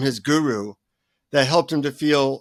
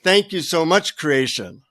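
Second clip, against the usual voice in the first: grateful. Shown as a demonstration. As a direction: give thanks to creation, settling down. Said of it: "switch your consciousness from".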